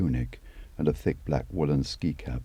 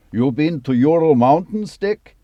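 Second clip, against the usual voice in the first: much higher and louder Russian shout; yelled; 14 semitones higher, 12 dB louder than usual. A narrator's reading. Dima turning round to shout at Luke in the jeep, loud. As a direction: call out over the engine noise. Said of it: "Dima yelled at Luke in English".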